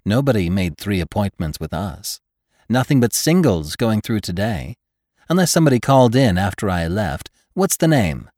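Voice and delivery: bright, loud, bustling doctor; cheerful hurried official; brisk doctor voice. A narrator's reading. Hitz voiced by reader.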